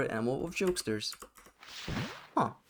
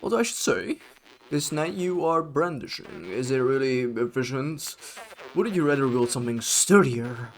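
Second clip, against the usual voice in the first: put-on boisterous old warrior; 2 semitones higher, 6 dB louder than usual. Old warrior praising the new knight, loud and hearty. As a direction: bellow it like a jolly veteran. Voices a game NPC.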